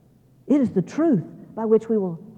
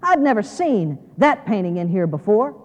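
haughty museum visitor, lightly acted; mildly snooty, measured complaint; condescending; slower than usual. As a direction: look down your nose at him, drawing out the criticism. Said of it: "rather condescendingly, she says".

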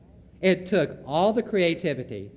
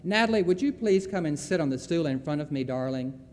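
parent counselor voice; 2 semitones higher, 3 dB louder than usual. Retold or imitated. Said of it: "in her usual parent counselor voice".

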